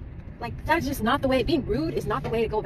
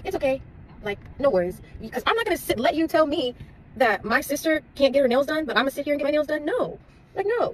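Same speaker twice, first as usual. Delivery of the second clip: indignant; 5 semitones higher, 3 dB louder than usual. Retold or imitated. Storming out of the salon.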